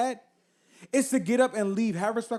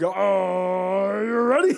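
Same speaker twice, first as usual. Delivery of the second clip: hyped shout; 4 dB louder, much slower than usual. Retold or imitated. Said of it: "She's gonna be like".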